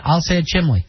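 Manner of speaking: "chimney" said as "chimley"; the wrong way, "chim-lee" for "chimney". Shown as a demonstration. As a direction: swap the N of "chimney" for an L. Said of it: "I say it incorrectly".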